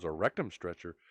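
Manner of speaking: low, hushed disbelief; dumbfounded. Acted. Cop repeats the driver's odd job, quietly dumbfounded. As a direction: echo it softly, mildly dumbfounded. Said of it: "with a dumbfounded look on his face".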